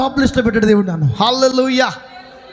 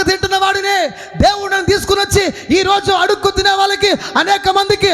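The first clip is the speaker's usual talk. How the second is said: high, driving declamation; impassioned preaching; 3 semitones higher than usual. Real, not acted. Preacher testifying that God raised him from begging, impassioned. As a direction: preach it in a high sustained cry.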